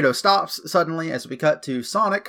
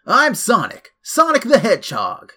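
bold, excited, pitched up; cocky hero intro; 8 semitones higher, 5 dB louder than usual. Retold or imitated. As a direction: announce yourself like a show-off hero. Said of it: "and's like".

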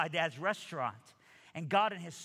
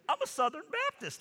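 friend's proud reply; 14 semitones higher, 3 dB louder than usual. Retold or imitated. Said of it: "And he's like".

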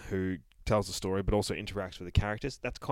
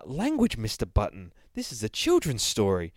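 fancy narrator scolding; 4 dB louder than usual. Acted. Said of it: "Mister Fancy Voice".

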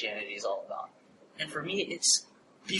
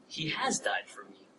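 awed whisper; 8 dB quieter than usual. Acted. Awed realization.

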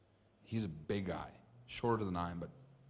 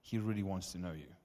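soft prayer; 5 dB quieter than usual. Retold or imitated. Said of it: "So I just pray".

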